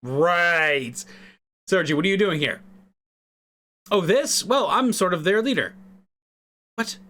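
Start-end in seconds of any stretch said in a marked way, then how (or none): 3.9-5.7 higher, casual Irish shrug; a light Irish accent, offhand about leading. Acted. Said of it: "I'm bad at Irish accents".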